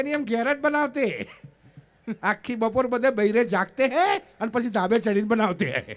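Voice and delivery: slow, laughing explanation in broken Hindi; laughing wife. Retold or imitated. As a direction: explain slowly through laughter.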